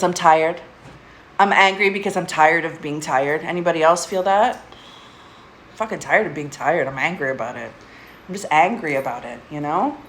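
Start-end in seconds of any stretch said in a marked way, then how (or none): 4.6-10.0 weary exasperated. Real, not acted. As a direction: let the exhaustion drag the words down. Repeats tired of being tired.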